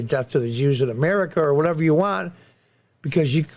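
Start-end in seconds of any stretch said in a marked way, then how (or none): none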